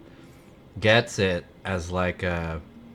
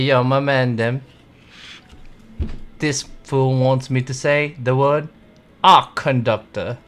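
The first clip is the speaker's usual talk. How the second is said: hammed-up London street English accent, building louder; bad English accent; 4 semitones higher, 6 dB louder than usual. Shown as a demonstration. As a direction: do a cocky mock London accent, growing louder and higher. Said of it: "my shitty English accent".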